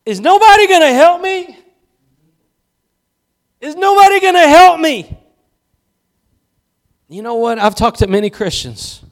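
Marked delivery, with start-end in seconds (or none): 0.1-5.1 high, loud, exasperated complaint; loud, high-pitched plea for help; frustrated Martha. Retold or imitated. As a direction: cry out like an overworked woman ignored by everyone. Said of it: "and she's like".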